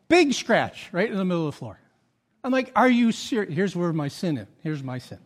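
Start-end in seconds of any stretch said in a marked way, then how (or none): 2.7-3.5 louder, higher exasperated outburst; frustrated. Retold or imitated. Homeowner seeing the big scratch, frustrated outburst. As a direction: retell an exasperated challenge. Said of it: "My frustration came out".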